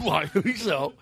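slow mimicry of the guest; laughing, drawn-out copy of his voice; imitating guest's voice. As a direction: echo him slowly in his odd voice. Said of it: "how to do this voice".

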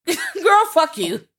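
high, loud burst through a laugh; laughing mock insult. Podcast host joking with co-host, laughing mock insult.

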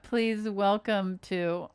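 "Please welcome to" drawn out slowly; wrong intro wording. Shown as a demonstration. Cohost quoting the botched intro back, slow and pointed. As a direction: stretch "Please welcome to" as the mistaken version.

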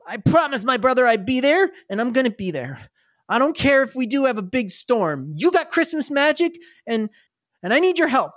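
put-on a kid who won't back down; boy begging the goblins for help; pleading kid. GM voices stubborn kid.

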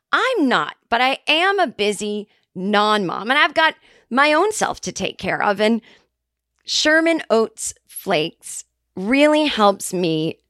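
slow, earnest commercial voice; ad read. Shown as a demonstration. Selling oats to listeners, slow ad voice. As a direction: pitch the cereal warmly to camera. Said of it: "okay, take two".

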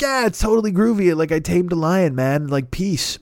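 lightly voiced hippie, starting high and settling; a hint of groovy hep cat; hippie talk. Circus lion tamer explaining himself, light hippie talk. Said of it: "he's doing fucking hippie talk".

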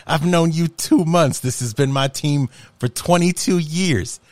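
mildly hammed-up pleading of his case; indignant retort. Acted boyfriend's retort to mocking girlfriend.

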